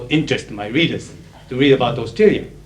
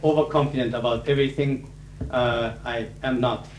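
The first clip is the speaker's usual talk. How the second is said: a touch more serious, softer; 5 dB quieter than usual. Real, not acted. Closing the speech to students, a touch more serious. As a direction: drop the joking, sound sincere. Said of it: "in a little more serious tone".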